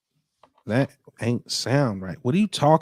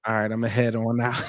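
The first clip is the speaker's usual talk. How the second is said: meme quote; 2 semitones lower than usual. Retold or imitated. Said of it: "that SpongeBob meme used to go?".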